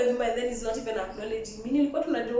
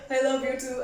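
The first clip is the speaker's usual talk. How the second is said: giggling mock love; laughing fake reply. Woman mockingly answering his I love you, laughing. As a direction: say it through a laugh. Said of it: "I'm like".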